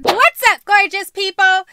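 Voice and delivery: loud, high, bubbly channel greeting; energetic YouTuber intro; vlog intro. Shown as a demonstration. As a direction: hype up the viewers. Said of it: "try it again".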